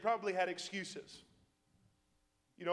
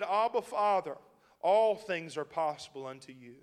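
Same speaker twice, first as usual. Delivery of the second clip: fervent prayer; 7 dB louder than usual. Acted. Jesus praying in Gethsemane.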